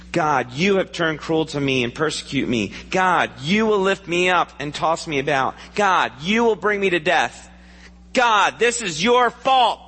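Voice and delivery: anguished plea to God. Acted. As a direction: let the complaint swell until it breaks out on fault. Job's lament voiced to God.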